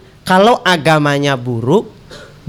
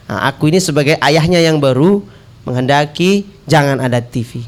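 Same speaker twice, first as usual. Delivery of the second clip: husband's request; 4 semitones lower than usual. Acted. Husband asking wife to limit the TV, measured appeal. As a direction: make a measured, patient request, pitched low. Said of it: "Kata si suaminya bilang gini".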